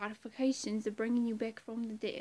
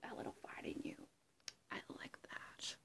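Joker. Acted. Performer doing a Joker monologue, whispery menace. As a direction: menace in a breathy stage whisper, swelling and dropping away. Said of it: "that was my impression of Joker".

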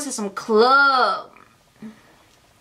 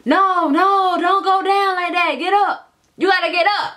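lightly voiced friends pleading, a bit higher; friends urging; 6 semitones higher than usual. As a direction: mimic friends coaxing her up. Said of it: "They like".

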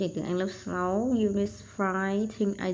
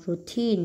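Routine with the second syllable stressed; Routine, weight on the final TINE. Shown as a demonstration. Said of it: "nhấn âm hai".

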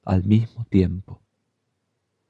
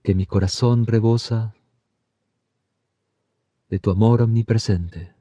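devotional prayer. Acted. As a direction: pray each phrase so it can be repeated back. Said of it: "Por favor, repita después de mí".

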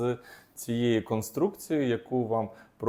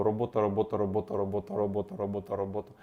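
quick, steady repeating of «робота», no breaks; rapid repetition; faster than usual. Shown as a demonstration. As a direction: say the word over and over without pauses. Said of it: "без пауз, швиденько, вголос".

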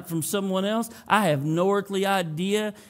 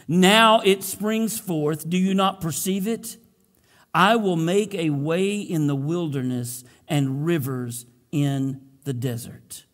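scripture reading. Acted. Pastor reading Isaiah to the congregation, solemn. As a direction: read the verses to the church with weight.

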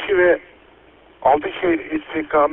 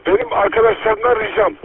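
police radio. Real, not acted. Earthquake emergency radio traffic.

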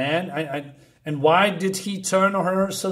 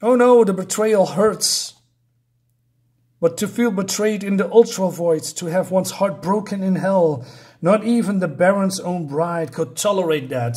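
mock lament; 3 dB louder than usual. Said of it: "And she says".

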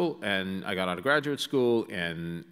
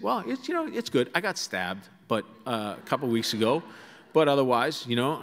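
lightly voiced Boston brawler, offhand; a hint of a Boston townie shrugging it off; understated Boston accent, casual; mild Boston tough guy; 3 semitones higher than usual. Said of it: "The voice is back".

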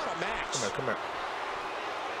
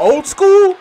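surprised; 9 semitones higher, 7 dB louder than usual. Real, not acted. Surprised at opponent's move.

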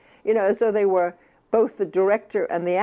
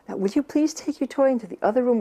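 higher, unsure, begging tone; pleading; 5 semitones higher, faster than usual. Shown as a demonstration. Mother pleading with a toddler over the toy, doubtful. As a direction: ask as if you doubt they'll do it. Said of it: "That I'm kind of pleading".

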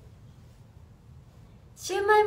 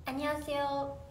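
Korean greeting. Shown as a demonstration. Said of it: "韓国語で言ってほしい".

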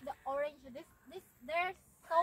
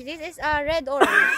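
insistent shout; 3 semitones lower, 8 dB louder than usual. Real, not acted. Insisting loudly on the color.

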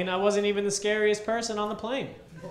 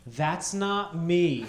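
1 deadpan with a laugh; much slower than usual. Retold or imitated. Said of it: "But instead I said".

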